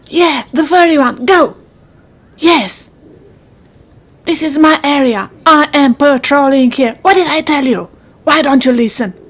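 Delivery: mildly indignant, territorial scolding; short, indignant commands; bossy telling-off. Acted. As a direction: scold like a self-appointed guard shooing intruders. Bossy animal guarding its patch.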